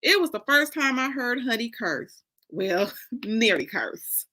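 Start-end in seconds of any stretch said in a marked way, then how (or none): 2.5-4.3 slow breathy chuckle, then whispered; a private laugh, half under the breath; amused whispered aside. Real, not acted. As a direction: giggly whisper correcting herself. Amused aside after Honey cursing.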